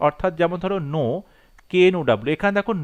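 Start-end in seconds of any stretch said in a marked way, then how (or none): 0.9-1.0 "no" with the K left silent. Shown as a demonstration. Teacher showing a spelling trap, "no" with silent K. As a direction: say "no" starting straight on the N sound. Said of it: "কে এই সাউন্ডটা কিন্তু silent".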